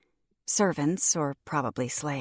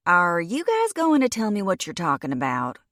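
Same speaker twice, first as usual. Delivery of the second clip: lazy Southern American drawl, a bit louder; 3 semitones higher, 5 dB louder than usual. Acted. Courtney asking the others what they're discussing, Southern drawl. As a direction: drawl it like a Southern girl left out. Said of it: "drawled in her southern accent".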